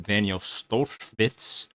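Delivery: mock German accent on the surname. Shown as a demonstration. Host announcing a fighter's name, German accent. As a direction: lean into German sounds on the name. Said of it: "said it with a German accent".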